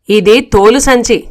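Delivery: slow, deliberate "తోలు సంచి" with a fall on "సంచి"; slow, gentle driver. Acted. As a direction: spell out "ఇది తోలు సంచి" slowly, as if to a foreigner. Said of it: "మెల్లిగా చెప్పాడు డ్రైవరు". (నెమ్మదిగా, వివరంగా "తోలు సంచి" అని చెప్పడం)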